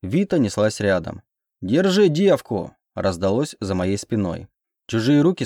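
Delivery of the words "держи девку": high, slow call to seize someone; drawn-out high guard's yell; shouted order. Acted. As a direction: call it out to your men in the chase. Guard yelling during a chase.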